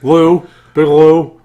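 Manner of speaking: slow, loud host intro; announcer intro. Pretend. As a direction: drag out the big introduction.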